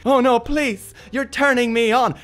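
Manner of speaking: high, hammed-up swooning voice; mock masochist. Stephen Fry mocks school bullies, hammed-up swooning. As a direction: play the delighted victim, over the top. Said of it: "just be like".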